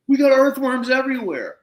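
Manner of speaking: high, loud mock alarm; retold screaming on phone. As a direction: act out yelling down the phone. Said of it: "screaming at the phone".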